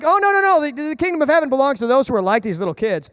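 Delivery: a preacher voicing Jesus with urgency; emphatic correction. Jesus voiced correcting the listeners.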